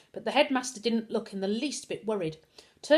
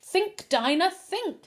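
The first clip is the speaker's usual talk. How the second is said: higher, urgent yell; 10 semitones higher, 5 dB louder, slower than usual. A narrator's reading. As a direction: urge her on loudly. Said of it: "Lloyd yelled".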